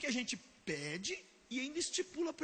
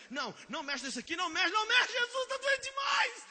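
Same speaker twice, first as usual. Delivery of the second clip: pained protest; 11 semitones higher, 3 dB louder than usual. Acted. Preacher acts pained dead man.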